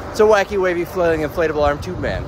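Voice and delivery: high, loud excited announcement; excited reveal. Real, not acted. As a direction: proudly unveil the tube man.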